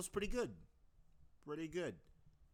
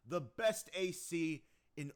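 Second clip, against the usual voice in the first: loud, higher, slow grandiose boast; Evangel voice; 5 semitones higher, 5 dB louder, slower than usual. Shown as a demonstration. Evangel boasting he's the best AC, loud and slow. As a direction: boom it like a self-proclaimed champion. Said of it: "Take two for Evangel".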